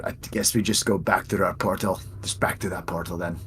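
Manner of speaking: hushed, low aside; quiet voice trailing away to almost nothing; whispering. Acted. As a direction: drop it right down, soft and low. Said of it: "I'm just gonna whisper".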